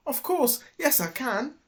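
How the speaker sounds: triumphant shout. A narrator's reading. Dilly triumphs over robbers, high proud shout. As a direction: cheer your own success. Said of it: "shouted Dilly".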